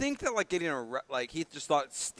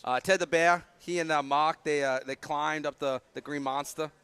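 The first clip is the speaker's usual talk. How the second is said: put-on light Boston accent, R's twirled; 3 dB louder than usual. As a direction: keep the Boston accent going. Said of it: "keep going with that Boston accent".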